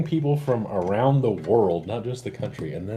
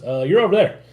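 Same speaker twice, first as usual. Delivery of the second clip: raised, louder quoted directions; imitating Chris; 9 semitones higher, 9 dB louder than usual. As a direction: act out someone calling out where to go. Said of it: "Chris goes".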